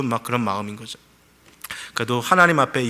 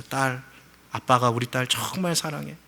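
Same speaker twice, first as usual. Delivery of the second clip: softer, gentle loving words; a father softly telling his daughter he loves her; tender father; 7 dB quieter than usual. Retold or imitated. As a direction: hold your daughter close and say it.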